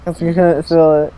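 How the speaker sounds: after wisdom teeth. Real, not acted. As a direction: talk through numb lips. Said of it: "You sound like a little baby".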